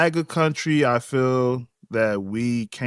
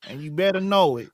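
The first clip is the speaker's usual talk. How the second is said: a higher, bragging fake Southern accent; bad Southern accent; 4 semitones higher, faster than usual. Brother playing Bubba on the host's request, bad Southern accent. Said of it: "Your accents are terrible".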